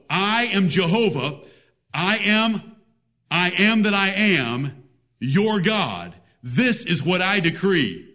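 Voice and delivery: slow, measured proclamation of God, lightly voiced. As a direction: proclaim it as God, unhurried and solemn. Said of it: "He wants you to know".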